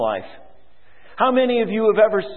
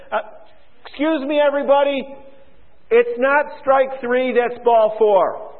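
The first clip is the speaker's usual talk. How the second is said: mock umpire; 4 semitones higher than usual. Umpire mockingly reverses his call.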